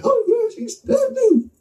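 very high, strained squeak of a voice; shocked realization. Retold or imitated. Realizing mid-fight he got stabbed, very high shocked voice. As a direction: let it crack up high in disbelief.

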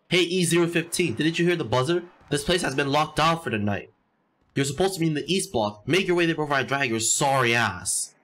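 a hint of a stern guard; bossy guard. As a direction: bark the lockdown order like a warden. Reads guard's lockdown order.

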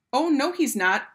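high, loud objection; calling out. A narrator's reading. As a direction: call back in protest as a rival mother. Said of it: "another mother called".

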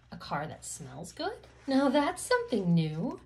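put-on lively read-aloud to a child; storybook reading. Reading a rhyming car book to kids, lively storybook voice. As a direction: bounce through the rhymes like a bedtime book.

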